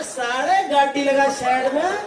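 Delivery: slow Haryanvi threat, rising at each end; खड़ी Haryanvi. Retold or imitated. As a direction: menace in drawn-out Haryanvi. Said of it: "एकदम खड़ी हरियाणवी में बोला". (हरियाणवी में खींचकर धमकी)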